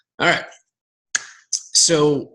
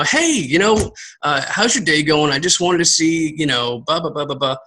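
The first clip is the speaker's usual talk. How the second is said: lively friendly voice message. Shown as a demonstration. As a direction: greet them like an old friend, upbeat. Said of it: "talk like I'm talking now".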